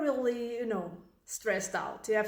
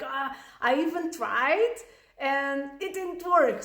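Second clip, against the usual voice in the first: angry exasperation; 2 semitones higher than usual. Acted. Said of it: "you get so angry".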